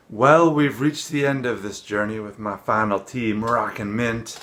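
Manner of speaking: a little winded from walking back in; talking while still catching breath. Real, not acted. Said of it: "I'm kind of out of breath".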